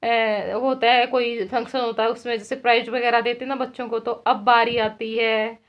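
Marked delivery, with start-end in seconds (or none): 4.1-5.6 imitating announcer. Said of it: "ये ऐसे बोल रहे थे".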